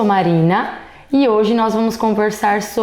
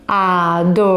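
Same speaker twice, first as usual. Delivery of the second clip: syllable by syllable; 3 semitones lower than usual. Shown as a demonstration. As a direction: count the syllables aloud for the class. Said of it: "vamos ver quantas sílabas ela tem".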